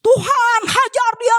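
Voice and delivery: high, hammed-up prayer for revenge; mock vengeful prayer. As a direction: pretend to pray for someone to get beaten. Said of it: "Jangan kalau berdoa". (doa balas dendam yang dibuat-buat, nada tinggi)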